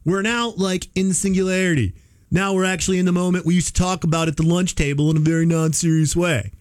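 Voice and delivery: a hint of a put-on accent, quoting a tech CEO; lightly mock the CEO's accent; playful understated accent for the quote; Sam Altman accent. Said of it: "I don't know why I gave him that accent".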